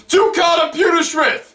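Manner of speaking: high-pitched impression request; re-enacted shout. Fan requesting Carter Pewterschmidt, high shout. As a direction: holler it from the audience. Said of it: "I shouted him".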